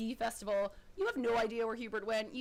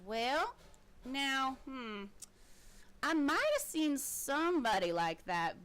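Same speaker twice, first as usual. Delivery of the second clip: coy and bored, angling for a bribe; gloomy halfling voice. Acted. Halfling hinting to player for help, mildly gloomy. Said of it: "this voice is the worst when I try".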